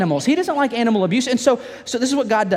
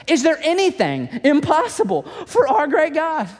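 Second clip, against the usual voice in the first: rallying question; 7 semitones higher than usual. Real, not acted. Repeated rhetorical question.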